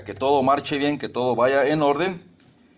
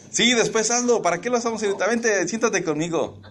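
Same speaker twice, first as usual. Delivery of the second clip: coaxing husband; 7 semitones higher than usual. Retold or imitated. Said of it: "lo que yo hago es".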